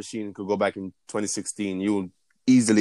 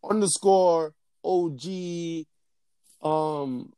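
mock disbelief; 6 semitones higher, much slower than usual. Real, not acted. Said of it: "come on, fix up your username".

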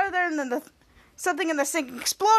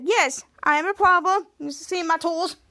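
lightly put-on Italian accent; mock Italian plumber introducing himself; a hint of fake Italian; Schwoz's Italian disguise; 2 semitones higher than usual. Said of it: "Schwartz in disguise said".

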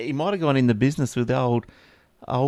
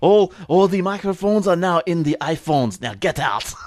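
a lightly voiced Vlad giving a curt order; half-hearted strongman voice; mock Vlad; 3 dB louder than usual. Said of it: "Vlad's pulled him out".

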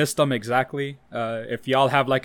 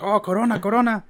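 mock coworker teasing; 8 semitones higher, 4 dB louder than usual. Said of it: "there's gonna be like".

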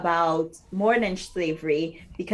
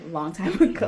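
laughing; faster than usual. Real, not acted.

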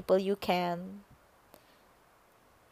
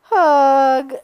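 audio hug; 4 semitones higher, 9 dB louder than usual. Pretend. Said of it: "an audio hug for you also".

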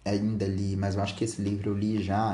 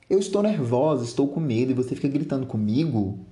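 increasingly tearful; 3 semitones higher, 4 dB louder than usual. Acted. Daughter accusing her father of yelling, mildly tearful. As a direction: protest with a touch of tears. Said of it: "Chorando cada vez mais".

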